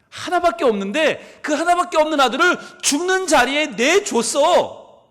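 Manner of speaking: God's grieving voice. Acted. God answering the preacher, a father's anguished rebuke. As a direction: pour out a father's grief. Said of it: "하나님이 마치 이렇게 말씀하시는 것 같았답니다".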